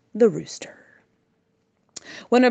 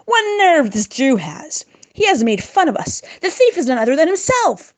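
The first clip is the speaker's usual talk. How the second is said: mocking; 7 semitones higher, 4 dB louder than usual. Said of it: "mockingly call out".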